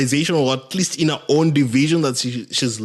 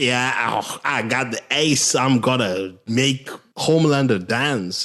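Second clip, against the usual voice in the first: put-on loose, unconvincing British accent; attempted British accent. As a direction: have a rough go at a British accent. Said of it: "That was your British accent?".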